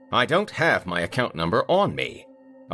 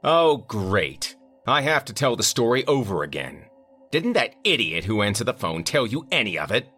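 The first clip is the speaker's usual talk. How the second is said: higher, louder irate caller; angry client; 6 semitones higher, 4 dB louder than usual. A narrator's reading. Vineyard owner complaining to the manager, irate. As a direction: demand answers, fed up.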